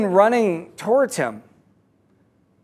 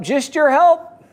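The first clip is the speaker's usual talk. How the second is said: high, slow mock yell; 6 semitones higher, slower than usual. Dangling man asking the rope holder, mock yell. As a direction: call up with stretched words. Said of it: "He yells up".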